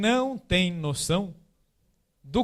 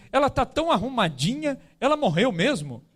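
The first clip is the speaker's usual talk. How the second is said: imitating a child's higher-pitched question; lightly voiced child, higher opening; loud child; 6 semitones higher than usual. Son asking at Dona Helena's wake, lightly imitated loud child. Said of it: "ele fala bem alto".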